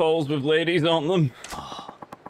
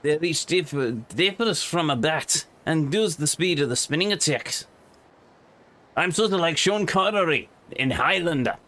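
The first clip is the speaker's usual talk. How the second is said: put-on Scottish accent; 2 semitones higher than usual. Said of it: "a Scottish accent that sounds like it's poorly done by an Englishman".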